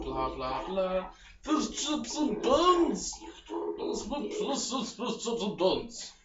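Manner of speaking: droning mock British blah-blah; a hint of a mock British accent. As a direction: parody the NPC's dialogue in a lazy British accent. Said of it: "in that accent".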